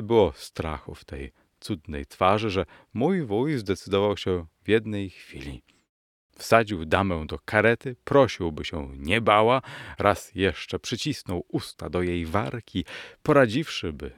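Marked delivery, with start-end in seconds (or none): none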